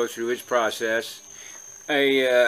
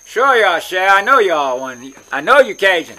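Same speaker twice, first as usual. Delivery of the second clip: a hint of an insistent old Cajun lady, raised and loud; lightly voiced old lady; 4 semitones higher, 7 dB louder than usual. Old lady insisting he is Cajun, lightly imitated. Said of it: "I had one old lady thought for sure".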